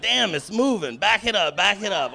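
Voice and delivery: the guard backing away in alarm. Retold or imitated. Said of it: "She's like".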